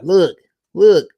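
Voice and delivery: high, loud mock-kid urging; giggly kid's prompting. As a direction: imitate a kid urging friends to look. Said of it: "You would do like".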